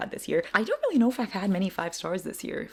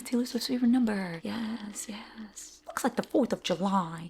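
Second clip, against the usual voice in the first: breathy excited whisper, pitched up; 4 semitones higher than usual. Real, not acted. Reacting to thirteen questions, excited whisper. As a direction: whisper it like a giddy secret.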